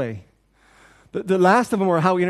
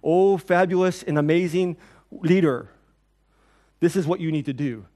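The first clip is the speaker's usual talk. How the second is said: mock flattery; 3 dB louder than usual. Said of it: "Jesus should have replied".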